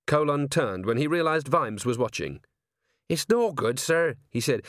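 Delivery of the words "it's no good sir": higher-pitched, harried complaint; lightly voiced fed-up sergeant; exasperated sergeant. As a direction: report defeat to a superior.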